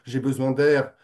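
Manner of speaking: imitation légèrement lyrique d'un poète. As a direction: declaim it lightly, in measured phrases with pauses. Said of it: "disait de façon très lyrique". (sur un ton lyrique, un peu déclamé)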